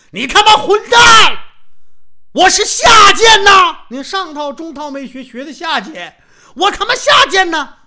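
high, loud, taunting bellow; yelling insult. Acted. Sun Jin yelling a mocking insult at his rival, loud and high. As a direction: shout the insult at full voice. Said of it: "叫唤上了".

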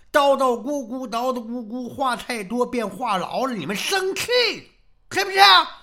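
high nagging rant, rising to a yell; hammed-up wounded master; aggrieved accusation. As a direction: accuse them, ending on a shrill loud question. Master accuses disciples of spite.

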